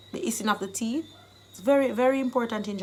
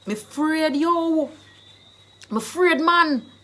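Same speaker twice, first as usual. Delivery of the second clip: higher, emphatic Jamaican Patois; 4 semitones higher, 4 dB louder than usual. Shown as a demonstration. Teacher translating fear for learners, in emphatic Jamaican Patois. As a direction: Jamaican "fraid", first syllable dropped. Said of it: "I've given you the Jamaican dialect".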